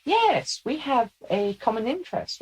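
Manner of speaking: high, squeaky eager officer; Leica. Acted. Channeled lieutenant tells the veteran of shared ground, squeakily. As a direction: start high in a squeaky character voice. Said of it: "somebody that has a very squeaky voice".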